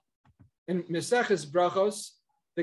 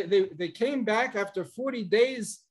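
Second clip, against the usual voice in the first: ordinary delivery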